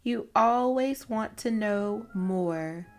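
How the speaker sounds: gentle storybook read-aloud; reading to children. A narrator's reading. Host reading a children's book to young listeners, storybook read-aloud. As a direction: read it like story time for kids.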